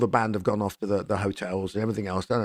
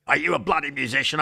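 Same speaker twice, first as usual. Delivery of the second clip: comedy Australian; 4 semitones higher, faster than usual. Retold or imitated. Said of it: "absolute comedy Australian".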